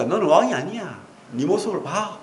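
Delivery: lightly acted teasing; mocking. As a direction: imitate a crowd jeering, pitch swinging up and down. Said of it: "이렇게 놀리는 거예요".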